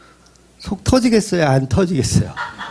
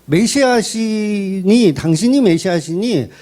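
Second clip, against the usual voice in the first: mock coaxing, first word drawn out slowly; retold needling plea, stretching the opening word; sarcastic urging; slower than usual. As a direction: imitate a disciple sarcastically egging his master on. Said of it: "그 얘기를 비꼬면서 이야기하는 거예요".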